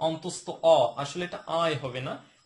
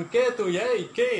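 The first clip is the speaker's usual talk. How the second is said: slow, louder "কে তুই" like confronting a stranger; playful who-are-you challenge; mock rude challenge; 6 semitones higher, 6 dB louder, slower than usual. Shown as a demonstration. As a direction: bark at a stranger as a joke. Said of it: "কে মানে অপরিচিত জন".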